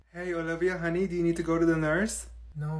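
ordinary talk

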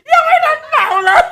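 พูดปนหัวเราะเสียงสูงดัง; แซวทั้งที่หัวเราะไม่หยุด; หัวเราะแซว. Real, not acted. (แซวว่ายังไม่ทันเป่า พูดไปหัวเราะไป เสียงสูง)

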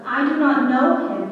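loud, forceful denial; thundering. A narrator's reading. Peter swearing to the bystanders, thundering. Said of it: "he thundered".

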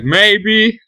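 high, slow hesitant voice building up courage; squeaky unsure infantry rallying; hopeful soldiers. Retold or imitated. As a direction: talk yourself into charging, timidly. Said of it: "These guys are like".

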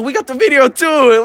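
high, slow taunting boast; retold bluff. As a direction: stretch it out to goad the rival. Retold argument, bluffing about video.

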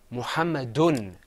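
"Muhammadun" slowly, closing on un; "Muhammadun" with a clear final n; double dhamma ending. Shown as a demonstration. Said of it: "that means we're gonna say".

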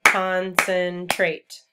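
loud, stretched syllable breakdown of "Concentrate"; clapped syllables. Shown as a demonstration. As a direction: beat out each syllable of "Concentrate". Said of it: "Let's clap the syllables and concentrate".

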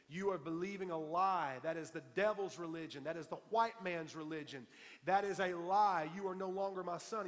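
mildly acted angry father; emphatic retold rebuke with a touch of anger; retold cursing. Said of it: "my father cursed me and said".

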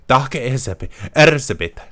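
"Daka Elizabeth" with a Japanese lilt, l dropped; imitating how the Japanese voice actress says "Elizabeth"; mock Japanese accent. Gamer imitating the character's name reading, mock Japanese accent.

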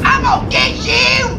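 mock threatening shout. Real, not acted. Yelling at game character.

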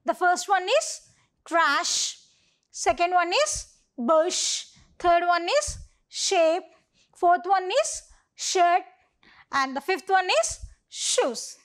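put-on clear, careful read-aloud for young pupils. Shown as a demonstration. Teacher reading a word list aloud to grade two children, clear and careful. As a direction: read each word out for the class. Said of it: "let us read aloud the words now".

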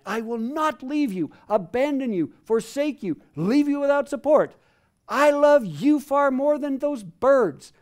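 loud, high, passionate promise; fervent reassurance. Acted. Preacher voices God reassuring frightened believers, loud and fervent. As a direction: proclaim the love like a vow. Voicing God's reassurance to listeners.

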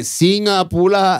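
high, slow uncle punchline; Singaporean uncle. Acted. Landing a dad joke on the restaurant name, uncle manner. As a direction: draw it out like a corny uncle. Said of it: "That was the most uncle thing".

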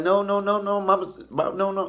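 high, insistent string of no's; imitating a bystander's urgent protest; acted pleading. Owner pleading with angry mama.

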